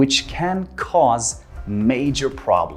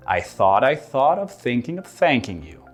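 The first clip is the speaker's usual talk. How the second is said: tongue twister. Shown as a demonstration. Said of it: "One more time".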